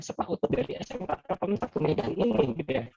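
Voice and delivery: robot voice from a glitchy connection; cutting in and out like a broken call; choppy robotic audio. Real, not acted. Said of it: "suaranya putus-putus". (suara putus-putus seperti robot)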